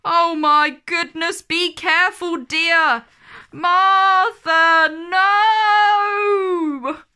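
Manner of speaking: panicked nanny rising to a shout; alarmed nanny. A narrator's reading. Nanny crying out as Martha misbehaves, alarmed shout.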